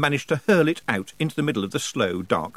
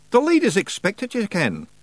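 high, broad Scots wee man, cheeky and gruff; a higher pitched Scots brawler voice; Scottish pictsie Rob; 9 semitones higher than usual. Acted. Pictsie chief thanking nobody for thanks, in a high Scots voice.

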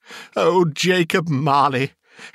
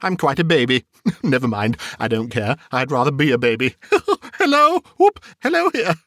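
giddy chuckling; 3 semitones higher, faster than usual. Acted. Scrooge would rather be a baby, giggling giddily. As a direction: chatter happily between giggles.

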